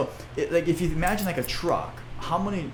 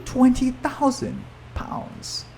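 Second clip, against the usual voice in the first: much higher and slow, marvelling; amazed repeat; 9 semitones higher, slower than usual. Real, not acted. Host marvelling at what one farmer had, high and slow. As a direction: stretch the number out in wonder.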